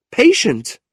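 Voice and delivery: high, loud disbelieving echo; incredulous cry. Acted. Niece outraged by her uncle's advice, high disbelief. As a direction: throw the word back at him in disbelief. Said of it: "Kate cried".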